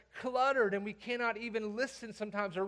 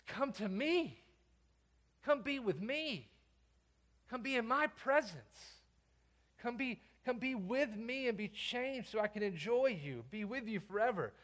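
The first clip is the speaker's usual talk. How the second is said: higher, gentle pleading call; tender invitation; 3 semitones higher, 4 dB quieter than usual. Acted. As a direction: invite them close, unhurried. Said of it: "that call is also relational".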